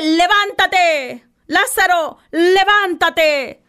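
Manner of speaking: Jesus summoning Lazarus, slow and solemn; commanding call. Retold or imitated. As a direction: call the dead man out of the tomb.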